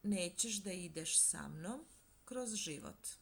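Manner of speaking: Nećeš da ideš sa mnom kroz život asked as a question, rising on Nećeš; question intonation. Shown as a demonstration. Teacher demonstrating question tune to learners, rising. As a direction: make it a real question, lifting on Nećeš. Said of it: "Here we have a question with an intonation".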